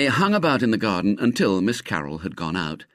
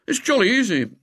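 airy; 13 semitones higher, 3 dB louder, faster than usual. A narrator's reading. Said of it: "went on William airily".

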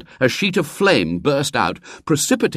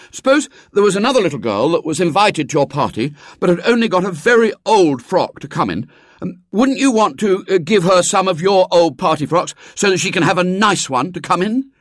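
put-on higher boy's voice, hesitating as he coaxes; tentative, persuading boy; 9 semitones higher, 4 dB louder than usual. Boy asking the girl for an old party frock, coaxing. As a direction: work up to a delicate request.

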